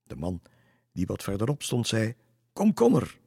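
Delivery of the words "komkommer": loud, high cry; sudden high-pitched shout; exclaimed boast. A narrator's reading. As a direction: call it out like a market seller. Rival grower cuts in boasting.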